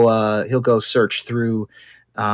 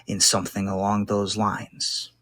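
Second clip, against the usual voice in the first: lightly voiced captive crime boss, deliberate pauses; bargaining gang boss. Captured boss bargains with interrogator to leave the chair, measured and deliberate.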